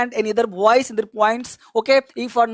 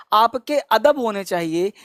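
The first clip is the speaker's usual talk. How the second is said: normal talking voice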